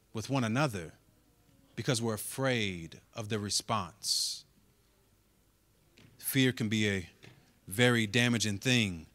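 low, soft, intimate sermon voice; hushed preaching. Acted.

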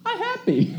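put-on tiny, very high toddler voice; still small voice. Small boy from the back of the minivan, still small voice. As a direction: imitate a little kid piping up, sky-high pitch. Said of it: "a still small voice comes through".

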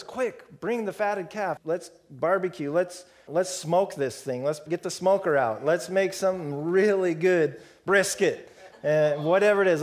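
eager father shouting for a feast; calling to servants. Acted. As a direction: call out across the house, delighted.

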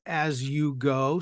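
"as you go" stretched slowly with a rising end; drawn-out phrase. Shown as a demonstration. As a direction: let the words hang to show ongoing action. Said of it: "now you have a little bit of continuous action".

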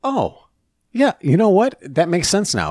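high, mocking voice of his wife; mock wife realising. Husband mimicking his wife conceding the point, high and mocking. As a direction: squeak out her sudden agreement. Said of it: "she goes".

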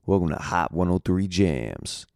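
slow smooth radio host intro. Retold or imitated. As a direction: announce it like a radio DJ. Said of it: "one of the places I did in Kansas City".

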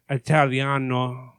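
slow mock Italian accent; put-on Italian accent. Shown as a demonstration. Demonstrating the accent for co-host, slow fake Italian. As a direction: say it slowly with a fake Italian lilt. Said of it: "that was a pretty good accent".

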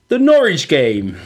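slow West Country drawl on the Norwich game; South West accent. Pretend. Podcast host previews the next match in a mock West Country accent. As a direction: roll it out in a put-on Devon accent. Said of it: "I like the accent there".

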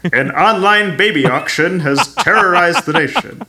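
hint of a newsreel narrator; old-timey radio voice. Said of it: "old-timey radio voice".

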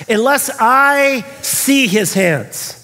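slow, drawn-out emphatic condition; emphatic insistence. Retold or imitated. Doubting Thomas demanding to see the hands, emphatic. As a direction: stretch each word to insist on it. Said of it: "do you notice how emphatic he is".

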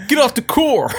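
high, laughing take on California talk; mock California accent. Mimicking California slang back to a friend, mock California accent. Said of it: "where you from in California".

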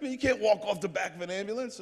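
high-pitched scolding disbelief; high, protesting mock outrage; incredulous trainers. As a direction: imitate alarmed staff objecting in a high voice. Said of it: "They're like".

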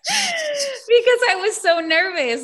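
high, drawn-out laugh breaking into the words; cracking up while recalling nerves. Real, not acted. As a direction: tell it through a burst of laughter. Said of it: "I started laughing".

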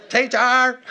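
high, very loud holler down the hall; full-voiced, hammed-up call; comedic yell. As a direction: imitate a little boy bellowing for his mom. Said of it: "he'll yell down the hall to his mom".

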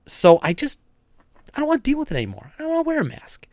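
mocking the public who are tired of masks, whiny and high; whiny complainer. Mocking whiny anti-mask public.

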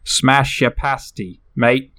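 "Smash ya pasty" slowly, tagged with "mate"; slangy pronunciation. Shown as a demonstration. Host shows how the phrase is pronounced, slangy pronunciation. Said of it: "that's how it's pronounced".

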